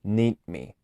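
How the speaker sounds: slow "Need me", d held into the m. Shown as a demonstration. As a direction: stretch "Need me" out slowly. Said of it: "lo hago un poco lento".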